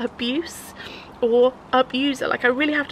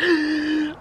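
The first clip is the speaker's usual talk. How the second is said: inner gasp; 5 semitones higher than usual. Retold or imitated. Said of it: "But in my head, I'm like".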